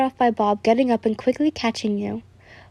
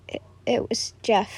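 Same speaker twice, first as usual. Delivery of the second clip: stammering, whispered confession; mumbled whisper; 4 dB quieter than usual. A narrator's reading. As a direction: breathe the name out hesitantly. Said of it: "he mumbled".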